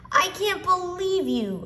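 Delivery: shouting. A narrator's reading. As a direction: shout it at a tattling brother. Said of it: "I shouted at him".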